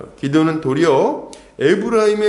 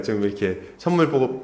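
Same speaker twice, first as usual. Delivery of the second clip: ordinary delivery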